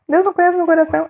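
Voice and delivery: high, laughing repeat; laughing disbelief. Real, not acted. (repetindo rindo, incrédula)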